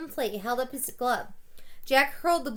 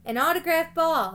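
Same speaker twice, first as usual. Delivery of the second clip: high, louder call from the stands; kid yelling; 6 semitones higher, 6 dB louder than usual. A narrator's reading. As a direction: shout it across the stands like an eager kid. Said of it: "another kid yelled".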